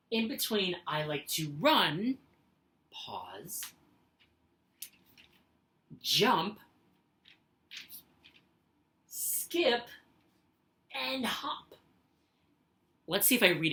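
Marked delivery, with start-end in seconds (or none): 0.9-11.7 long pause after "run", "jump", "skip"; pause after each item. Shown as a demonstration. Teacher demonstrating comma pauses to the class. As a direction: let each list word stand alone with a pause. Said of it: "I like to put a comma as a short pause".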